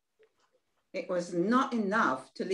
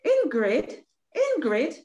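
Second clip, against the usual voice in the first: calls the name out, higher and louder; urgent calling; 6 semitones higher, 5 dB louder than usual. Acted. Excited younger sister calling Ingrid over, loudly. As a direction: get her attention from across the room.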